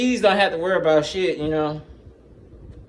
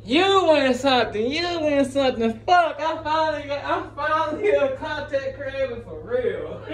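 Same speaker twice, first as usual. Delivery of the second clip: mock excitement; 8 semitones higher than usual. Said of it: "I'm like".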